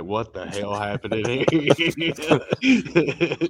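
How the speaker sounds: slow, laughing mock outrage. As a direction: laugh through the imagined question. Imagined maids' reaction.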